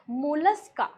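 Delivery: मोलस्का said softly and lovingly, soft and tender. Shown as a demonstration. Teacher tells her class how to say मोलस्का: gently, lovingly. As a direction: say मोलस्का gently, like a pet name. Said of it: "बड़े प्यार से कहते हैं".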